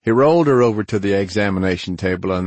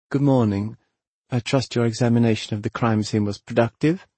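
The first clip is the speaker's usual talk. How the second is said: put-on Australian accent; 4 semitones higher than usual. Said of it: "in her clipped Australian accent".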